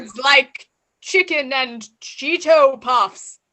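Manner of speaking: lightly put-on Russian accent. Party guest Bob denies being a Russian spy, in a light Russian accent. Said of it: "stereotype based on your accent".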